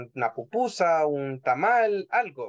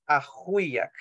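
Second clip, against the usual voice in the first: slow model word; 3 semitones lower than usual. Shown as a demonstration. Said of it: "La W es como una U larga".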